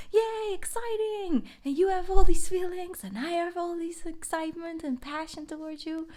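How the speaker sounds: high, squealing giddy voice; giddy high-pitched fan voice; gushing excitement. Pretend. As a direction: gush like an eager new lover. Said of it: "It's like".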